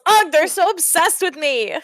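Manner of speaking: high-pitched, theatrical exasperation; exasperated character complaint. Acted. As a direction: complain as the put-upon star. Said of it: "Beast Scales".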